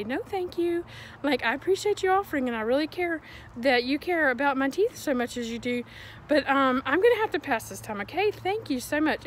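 sweet, quick and overly gracious; extra-polite brush-off; polite refusal. Shown as a demonstration. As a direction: turn her down politely, fast and bright. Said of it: "you can just politely say".

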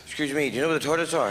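friendly eyebrows-up question; eyebrows up, polite. Shown as a demonstration. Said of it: "have your eyebrows up".

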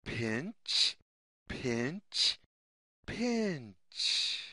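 low, soft mock crab pinches; crab pinch sound. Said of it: "makes the sound".

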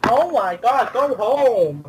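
exasperated dismissal. Real, not acted. Player scolding teammate over used gas, exasperated. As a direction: send them packing, stretching the words.

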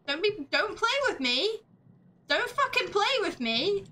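mock aggressive. Player bluffing toughness at the ghost, mock aggressive. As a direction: act tough at the ghost, laughing through it. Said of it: "I'm being aggressive".

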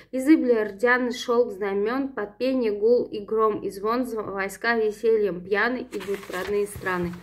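measured poem reading with dramatic pauses; ballad recitation. Acted. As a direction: read the ballad aloud like a recital. Recites Russian translation stanzas.

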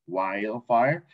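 "Wildfire" drawn out with no D; silent D. Shown as a demonstration. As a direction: model "Wildfire" as wile-fire, D unspoken. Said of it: "No suena la D".

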